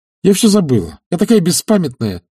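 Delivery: irritated insistence; vexed. A narrator's reading. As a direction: snap the topic shut. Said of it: "почти с досадой".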